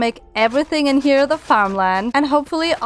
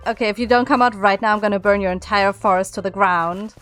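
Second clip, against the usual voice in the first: mock threat; 3 semitones lower than usual.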